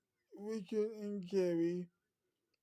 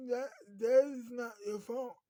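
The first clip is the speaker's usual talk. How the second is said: louder, higher, with a crying catch; tearful comfort; 4 semitones higher, 5 dB louder than usual. Acted. Girlfriend comforting the sobbing hitman, tearful and higher. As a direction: plead through tears that it isn't his fault.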